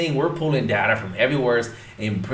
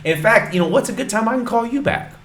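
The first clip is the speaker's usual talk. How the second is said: much higher, fast homeowner voice; imitating homeowner; 11 semitones higher, 3 dB louder than usual. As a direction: play the agreeable homeowner, pitched way up. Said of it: "But he go".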